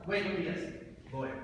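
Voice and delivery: jumps in loud and keen; eager guess. Acted.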